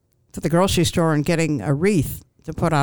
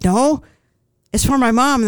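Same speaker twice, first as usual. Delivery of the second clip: high, louder mock wail; retold upset; 7 semitones higher, 5 dB louder than usual. Crying customer explaining wreath for her mom, mock-tearful. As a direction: replay a tearful protest, hammed up.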